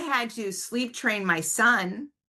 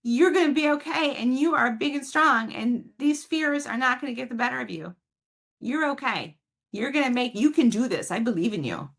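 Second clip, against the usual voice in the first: higher, lovingly encouraging; encouraging parent; 6 semitones higher than usual. Shown as a demonstration. Parent encouraging a scared child at bedtime, loving and upbeat. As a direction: cheer the child on with loving confidence. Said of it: "it is lovingly and compassionately".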